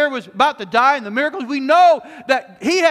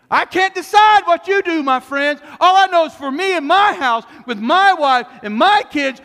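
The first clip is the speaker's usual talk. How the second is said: raised voice, hammering the key words; full-force preaching; 4 semitones higher, 5 dB louder than usual. Acted. Preacher declaring Joshua's choice to the congregation, full-force. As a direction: preach it with loud, ringing conviction.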